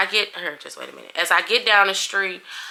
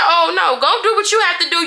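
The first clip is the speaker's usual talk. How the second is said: tag; 9 semitones higher, 5 dB louder than usual. Retold or imitated. Retelling her indignant refusal to friend.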